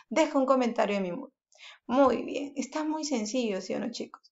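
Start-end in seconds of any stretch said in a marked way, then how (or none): 0.1-1.3 "Deja un comentario en mi muro" rattled off fast as an order; quicker command. Shown as a demonstration. Teacher repeating the command to pupils, faster. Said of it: "estoy ordenando".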